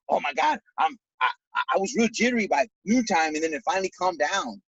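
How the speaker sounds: high, fast, jittery retelling; excited customer. Retold or imitated. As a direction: gush like a wired customer.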